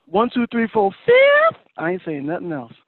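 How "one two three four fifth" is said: count, then shout the last; yelling count. Real, not acted. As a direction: voice shoots up on last. Counting up, voice jumps.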